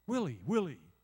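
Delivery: loud calling out Willie, Willie; God calling. Retold or imitated. God calling the pastor by name, loud call. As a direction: call the name across a distance. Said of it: "And you go".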